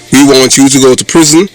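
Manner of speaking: ordinary talk, nothing marked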